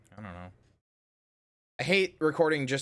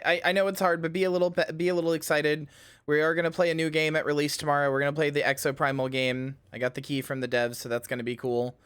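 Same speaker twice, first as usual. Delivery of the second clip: higher, louder push of forced excitement; forced hype; 4 semitones higher, 5 dB louder than usual. Real, not acted. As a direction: pump up the hype against the mood. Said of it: "I am not good at generating hype right now".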